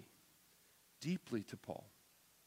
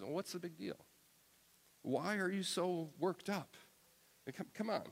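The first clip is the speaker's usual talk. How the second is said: mock dismissive teen; 5 semitones higher than usual. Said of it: "If the teenager".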